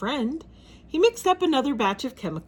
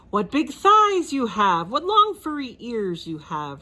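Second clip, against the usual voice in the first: Porkenstein voice; 3 semitones higher, 4 dB louder than usual. Acted. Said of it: "replied Porkenstein".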